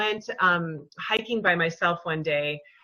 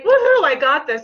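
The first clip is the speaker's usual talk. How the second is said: loud, higher fake-confident woohoo; mock cheer; 7 semitones higher, 10 dB louder than usual. Launching her website, mocking carefree confidence, loud woohoo. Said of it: "I'm not just like".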